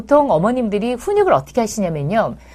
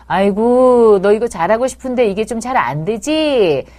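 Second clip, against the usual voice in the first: empathetic mom; 3 dB louder than usual. Shown as a demonstration. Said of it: "그걸 말로 해주시는 거예요".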